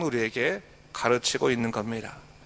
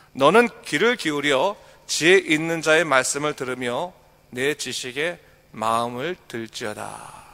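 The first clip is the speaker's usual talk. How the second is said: solemn reading, slowing at the close; scripture reading. Acted. Pastor reading verse seventeen aloud, solemn and measured. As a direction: read the verse, easing down at the end.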